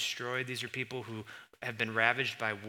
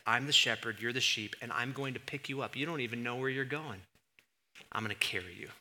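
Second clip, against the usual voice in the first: tender God; 2 semitones lower, 3 dB quieter than usual. Acted. God comforting his sheep.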